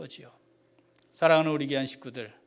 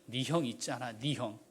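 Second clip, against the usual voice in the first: soft, gentle reassurance; a hint of a patient father comforting; God softly reassuring Moses; calm God; 4 dB quieter than usual. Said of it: "하나님 차분하게 또 말씀하세요".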